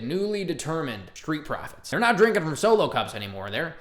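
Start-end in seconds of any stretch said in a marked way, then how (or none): 1.9-3.8 a light hint of a Southern US accent. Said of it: "I naturally went to a Southern accent there".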